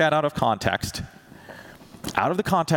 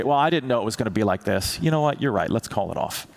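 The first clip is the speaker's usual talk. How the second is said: frustrated God. Pretend. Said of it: "become frustrated with you and say".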